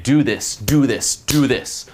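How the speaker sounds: punchy repeated command, each one falling; bossy orders. Shown as a demonstration. Coach showing how to order a girl around, commanding. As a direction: drive each order home separately. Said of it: "Just like, bang".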